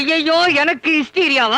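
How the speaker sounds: drawn-out, stretching ஐயையோ, slow; slow dismayed wail. Acted. Husband horrified at being called hysterical, slow wail.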